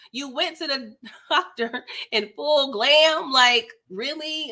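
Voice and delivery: light mock of a snide castmate; a hint of a nosy instigator, drawn out. Vlogger mocking Marlo's snide remark, lightly voiced. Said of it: "being an instigator".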